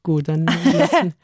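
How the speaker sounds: laughing through the words; chuckling as he drops it. Real, not acted. Laughs while dodging the question.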